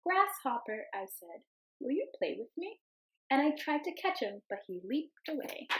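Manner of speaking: gentle storybook read-aloud; storybook voice for the class; reading to children. Acted. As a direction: read it like story time for little kids. Teacher reads picture book aloud.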